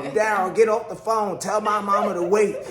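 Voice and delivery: retold impatient command; imitated insistent wife. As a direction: order the husband about as a wife in labour. Wife in pain ordering husband.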